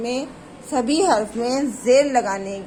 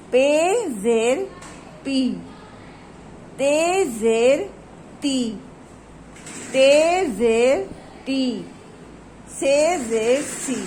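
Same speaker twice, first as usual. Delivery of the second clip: first slow take of the letter drill; slow drilled reading; much slower than usual. Shown as a demonstration. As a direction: read the letters slowly, first time through. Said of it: "दोबारा से start करती हूँ". (पहली बार धीरे पढ़ाना)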